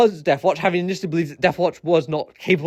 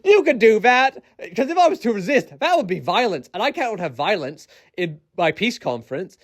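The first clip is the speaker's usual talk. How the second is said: Satine mocked. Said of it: "Satine just looks at him and goes".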